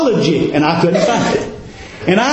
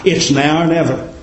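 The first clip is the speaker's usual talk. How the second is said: crying out; 4 semitones lower than usual. Retold or imitated. Blind beggar calls to the Savior, retold crying out. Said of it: "He begins to cry".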